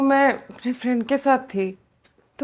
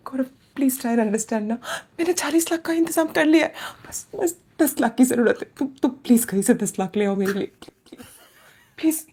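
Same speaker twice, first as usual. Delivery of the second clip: desperate pleading; 4 semitones lower than usual. Acted. Begs lover for money.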